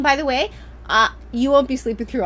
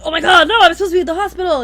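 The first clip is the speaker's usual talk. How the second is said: higher, much louder and fast, with a laugh; mock panic; 7 semitones higher, 11 dB louder, faster than usual. Mother retelling a labor nightmare, in laughing mock panic. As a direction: blurt it out in a half-laughing dream panic. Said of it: "I'm like".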